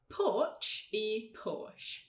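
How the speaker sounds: very slow "Porch e Porsche", ending CH then SH; tch against sh. Shown as a demonstration. Teacher contrasting two sounds, "Porch e Porsche" drawn out. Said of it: "vamos colocar esses dois sons".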